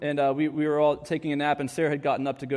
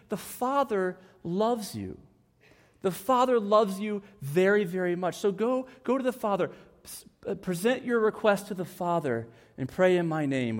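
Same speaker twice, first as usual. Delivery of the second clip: tender reassurance. Acted. Voicing Jesus tenderly reassuring.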